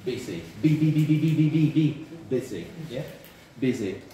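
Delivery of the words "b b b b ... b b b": louder repeated "B" drilling the voiced b; repeated B sound. Shown as a demonstration. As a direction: hammer out "B" again and again for the class.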